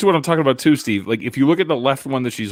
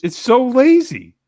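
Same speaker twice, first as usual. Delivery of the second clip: disgusted; 9 semitones higher, 5 dB louder, slower than usual. Real, not acted. Mocking the food video.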